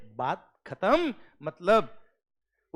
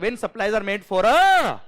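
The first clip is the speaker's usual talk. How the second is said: slow dictation; 5 semitones higher, 9 dB louder, much slower than usual. Shown as a demonstration. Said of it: "आवाज ढंग से नहीं आई".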